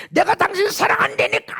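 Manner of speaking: high, loud re-enacted outburst; retold yelling. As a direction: shout it in wronged protest. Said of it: "하고 막 소리를 질렀어요".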